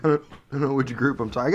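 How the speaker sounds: talking with hiccups; speaking through hiccups. Real, not acted. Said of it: "I got the hiccups".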